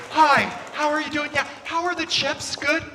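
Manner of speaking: high, awkwardly polite small talk; imitating an uncomfortable polite man; Jason Bateman. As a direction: make nervous, chirpy small talk. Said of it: "I end up sounding like Jason Bateman from Ozark".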